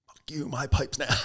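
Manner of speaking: high, loud, slow defiant taunt; cocky refusal. Retold or imitated. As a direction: throw it back at him, slowly. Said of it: "I was like".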